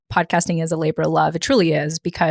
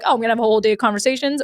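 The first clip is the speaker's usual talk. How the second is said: excited take; 4 semitones higher, much faster than usual. Shown as a demonstration.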